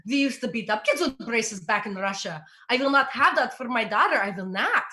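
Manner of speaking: lightly voiced stern father, Russian accent; mild mock Russian father; strict Russian dad. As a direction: give it a touch of a strict dad's Russian accent. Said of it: "he's like".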